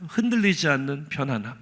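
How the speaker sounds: low, soft slogan with a light laugh; murmured commercial tagline. Retold or imitated. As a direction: quote a bed ad softly, lightly amused. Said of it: "침대 회사 광고였습니다".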